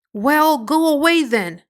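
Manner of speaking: sharp, loud go-away; angry. A narrator's reading. Pigeon angrily sending Alice away. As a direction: snap it out angrily. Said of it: "in an angry voice".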